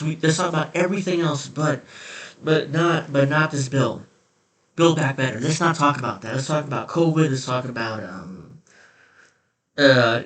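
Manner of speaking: mock feigned concern, lightly acted; a touch of hammed-up, evasive concern; Joe Manchin. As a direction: play at caring while dodging the subject. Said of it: "the feigned concern and the feigned".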